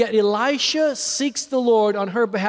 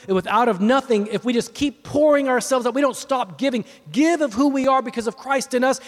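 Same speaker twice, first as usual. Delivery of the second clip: raised, emphatic preaching voice; 6 semitones higher, 3 dB louder than usual. Real, not acted. Preacher exhorting listeners to keep pouring themselves out, emphatic preaching. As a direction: urge the congregation on, lifting out of storytelling. Preaches after telling his story.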